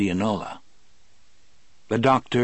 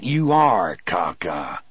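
growled; 2 semitones lower, 4 dB louder, slower than usual. Acted. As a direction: growl it out in disgust. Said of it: "Brutal growled".

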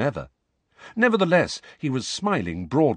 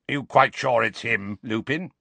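gruff, suspicious growl; a hint of an old auror's growl. Moody doubting Lupin, gruff growl. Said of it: "he growled".

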